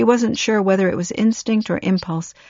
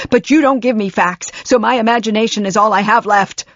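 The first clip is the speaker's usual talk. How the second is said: anguished tirade; 3 semitones higher, 5 dB louder than usual. Acted.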